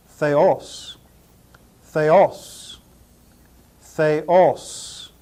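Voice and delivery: "theos" said thay-OSS, repeated with pauses; pronunciation demo. Shown as a demonstration. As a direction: model "theos" as thay-OSS for learners to copy. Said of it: "and is pronounced".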